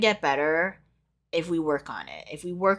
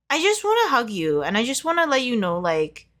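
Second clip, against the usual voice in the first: higher, emotional voice; choked up; 5 semitones higher than usual. Real, not acted. Tarot reader longing to hug the viewers, choked up. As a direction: reach out to them, close to tears. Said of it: "getting so emotional for your pile".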